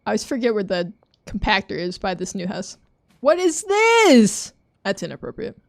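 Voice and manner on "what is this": loud, slow, higher disbelief; shocked. Real, not acted. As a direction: drag it out in shock. Shocked at obscene item.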